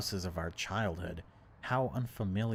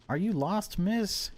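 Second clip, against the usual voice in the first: police officer voice; 12 semitones higher, 5 dB louder, slower than usual. Acted. Police officer questions driver.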